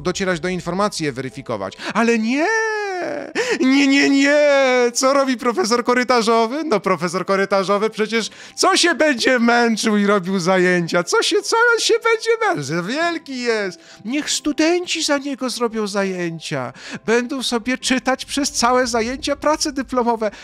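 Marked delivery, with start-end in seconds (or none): 1.9-4.4 high, loud, hammed-up refusal; mock wailing protest. Ranting about professors shirking their duty, high mock wail. 4.9-20.3 much higher, hammed-up sarcastic voice; sarcastic mockery. Mocking a professor who lets students run class, high sarcastic voice.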